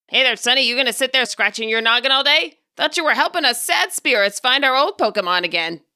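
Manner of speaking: lightly voiced cranky old man; a hint of an old-timer teasing. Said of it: "an elderly voice broke into his mind".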